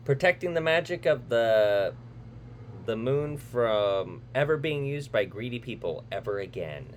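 dramatic trailer narrator voice; movie trailer read. Acted. Reads the movie synopsis.

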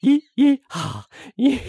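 high, stretched-out yee-haw hollers; mock country band yodel-yelps; yeehaw country singer. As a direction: whoop like a hammed-up cowboy singer. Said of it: "Stop doing it".

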